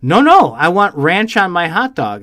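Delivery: mock kid demanding ranch; insistent kid. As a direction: act out the pushy little girl. Girl insists on ranch, voiced.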